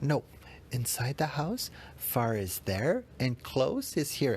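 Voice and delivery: put-on a small girl explaining patiently; imitating daughter. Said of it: "And she's like".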